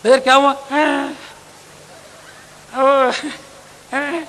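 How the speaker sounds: worried friend asking about his health; concerned friend. Acted. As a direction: ask the sick man what happened. Friends ask sick man.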